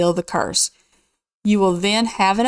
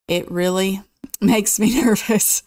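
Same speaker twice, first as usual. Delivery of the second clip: nervous laugh. Real, not acted. Nervous about getting cursed.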